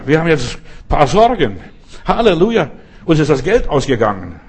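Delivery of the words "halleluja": loud, high Halleluja called out; proclaimed Halleluja. Acted. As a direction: shout praise over the trouble. Proclaiming Halleluja over problems. (laut und hoch ausgerufenes Halleluja)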